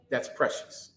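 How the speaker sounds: breathy whisper, voice dropped away. Shown as a demonstration. Preacher repeats it to the congregation, whispering. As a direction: hush it, like a secret. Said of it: "And that's precious, brother".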